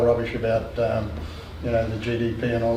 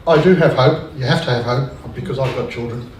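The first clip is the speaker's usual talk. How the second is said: choked up; 4 dB louder than usual. Real, not acted. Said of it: "I'm, I'm choking up".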